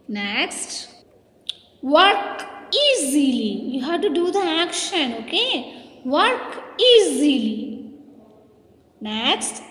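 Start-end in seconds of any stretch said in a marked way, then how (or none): 1.8-3.7 slow, stretched classroom prompt; drawn-out teacher's command; called-out action command. Shown as a demonstration. 6.0-7.9 slow, stretched classroom prompt; drawn-out teacher's command; called-out action command. Shown as a demonstration.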